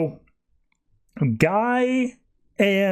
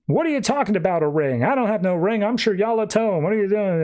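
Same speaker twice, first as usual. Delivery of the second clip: a lightly voiced indignant woman, somewhat higher; baffled protest, pitched up a little; indignant confused stranger; 5 semitones higher than usual. Shiryala to the group, lightly voiced and indignant. Guy's other personality confused.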